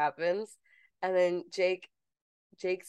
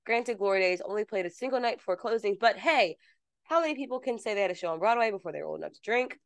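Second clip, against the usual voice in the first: news blurb read; 3 semitones higher than usual. Acted.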